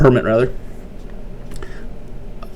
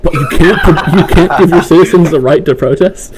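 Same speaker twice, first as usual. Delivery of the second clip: laughing disbelief; 3 semitones higher than usual. Real, not acted. Joking outrage, laugh heard.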